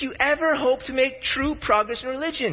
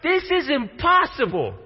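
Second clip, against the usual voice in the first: agitated; 5 semitones higher than usual. Acted. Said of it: "Nicodemus' agitation comes in".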